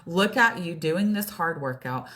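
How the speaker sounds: building pep talk to oneself; encouraging self-talk. Retold or imitated. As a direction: cheer yourself on, emphatically. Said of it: "I just had to flip my mind".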